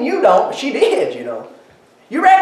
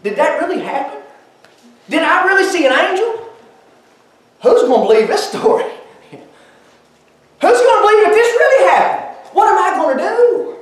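Mary's disbelieving questions; 5 semitones higher than usual. Acted. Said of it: "questions that had to run through that girl's mind".

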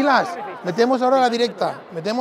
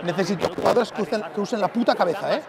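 angry coach yelling. Real, not acted. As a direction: bark at the players in anger. Coach yelling at team in timeout.

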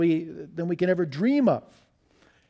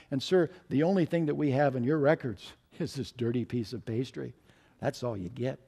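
softer, gentle close to the verdict; kindly; 3 semitones lower, 4 dB quieter than usual. Acted. Waitress gently telling him all he gets, soft. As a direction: let it fall soft and kind. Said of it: "said very kindly".

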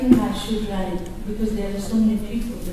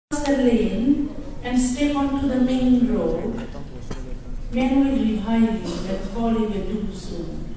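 louder, declaiming poem reading that settles at the end; poem recital; 3 dB louder than usual. Acted. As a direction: recite it as a warning to a girl. Reads second poem aloud.

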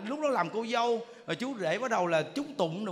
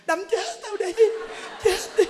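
much higher defiant cry; a wife goading her husband, pitched up; shrill dare; 11 semitones higher, 4 dB louder than usual. Retold or imitated. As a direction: dare him to hit you. Wife daring husband to hit.

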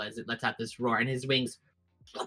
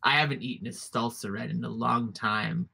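menacing dragon voice; 3 semitones lower than usual. Acted. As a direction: savor each threat like a predator.

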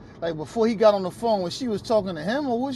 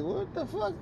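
mock shock; 13 semitones higher, 9 dB quieter than usual. Retold shocked reaction to her.

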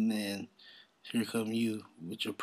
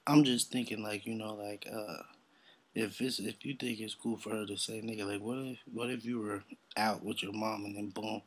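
normal talking voice

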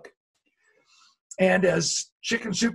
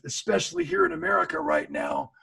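emphatic call; 10 semitones higher than usual. Real, not acted. Emphatic plea to the audience.

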